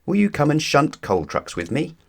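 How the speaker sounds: high, bright eager ask; peeping. Acted. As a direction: pipe the question up high and eager. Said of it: "peeped Thomas".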